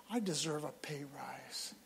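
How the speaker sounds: whispered mock grumble; preacher whispering a congregant's grumble; whispered aside. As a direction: whisper it like a petty complaint. Mock voice of ungrateful worker.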